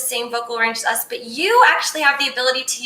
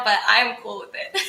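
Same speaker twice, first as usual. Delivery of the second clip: laughing; 2 semitones lower, 3 dB quieter than usual. Real, not acted. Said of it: "I feel really silly right now".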